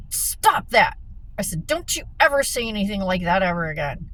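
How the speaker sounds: retold scolding, quick and firm; reenacted sharp reprimand; retold snapping. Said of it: "And I snapped".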